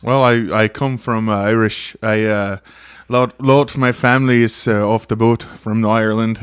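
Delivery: put-on a loose, wandering Irish accent; Irish accent drifting in and out. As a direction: put on a shaky-footed Irish brogue. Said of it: "He actually liked your Irish accent".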